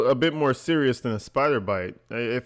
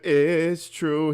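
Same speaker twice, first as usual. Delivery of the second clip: mocking, slightly raised, wavering tune; mimicked wavering tone; 4 semitones higher than usual. Streamer mocking a caller's attempt to fluctuate tone, wavering imitation. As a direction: copy his wobbly tone mockingly. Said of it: "fluctuate that tone a little bit".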